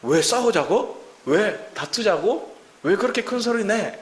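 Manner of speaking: slow, rising mock snap back; defensive retort. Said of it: "적반하장으로".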